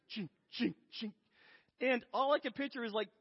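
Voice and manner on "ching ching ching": short mechanical clinks, evenly spaced; imitated coaster clanking. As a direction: mimic a chain lift ratcheting upward. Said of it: "it's like".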